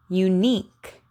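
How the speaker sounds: "Unique" said alone with a crisp final K; over enunciating. Shown as a demonstration. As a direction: isolate "Unique" and pop the K. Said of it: "Listen careful".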